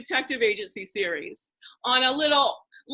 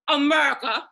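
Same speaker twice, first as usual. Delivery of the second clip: punchy impersonated stand-up delivery; Bernie Mac; 5 dB louder than usual. Acted. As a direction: boom the word out in a comedian's voice. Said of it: "I say in my Bernie Mac voice".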